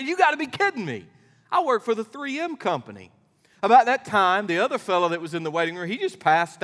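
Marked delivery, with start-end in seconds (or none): 0.0-3.1 stunned father. Acted. Joke, second father stunned.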